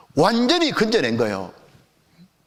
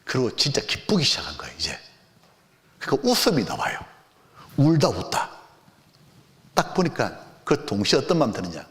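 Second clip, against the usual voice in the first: ordinary talk, nothing marked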